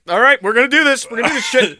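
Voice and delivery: pumped up. Real, not acted. Psyching up to do it.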